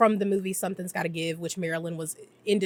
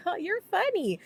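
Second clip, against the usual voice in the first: mock amused; 11 semitones higher than usual. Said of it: "And he's like".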